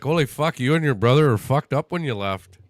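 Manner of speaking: put-on light Canadian accent. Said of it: "I'm putting on my best Canadian accent for this".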